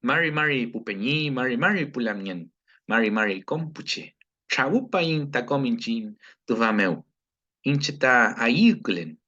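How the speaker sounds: slow, measured recited greeting; formal Mapuche greeting. Shown as a demonstration. Teacher models a full Mapudungun self-introduction, measured. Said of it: "yo les puedo decir".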